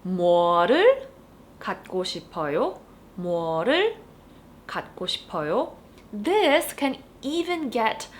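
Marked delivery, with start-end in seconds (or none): 0.1-2.8 fast Korean question. Shown as a demonstration. Teacher modeling the casual question. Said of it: "you would need to use the object marker 를". 3.2-5.7 fast Korean question; fast repeat. Shown as a demonstration. Teacher repeating the casual question. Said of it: "you would need to use the object marker 를".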